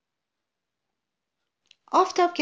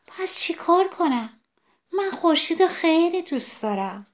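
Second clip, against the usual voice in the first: pleading sunflower; 2 semitones higher than usual. Acted. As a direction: plead like a child who loves the sun.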